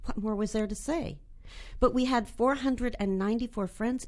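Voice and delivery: a measured, deadpan read of her own short story. Acted. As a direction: read it like an author at a reading, dry and wry. Reads her short story aloud.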